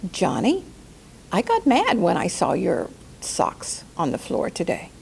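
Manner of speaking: a calm, soft confession to a family member. Shown as a demonstration. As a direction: tell him softly and calmly. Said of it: "you can say 'em in a soft way".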